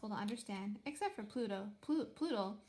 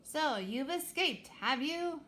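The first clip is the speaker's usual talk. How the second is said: growled; 5 semitones higher, 4 dB louder, slower than usual. Acted. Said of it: "growled the Poglite captain".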